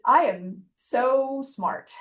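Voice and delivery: slow, smug mock brag; bragging. Advisor mocking a bragging applicant, slow smug drawl. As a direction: drawl it out like a show-off. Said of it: "it's like a brag".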